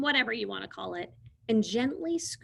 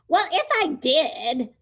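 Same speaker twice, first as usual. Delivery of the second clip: bossy; 6 semitones higher, 5 dB louder than usual. Acted. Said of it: "back to being its old bossy self".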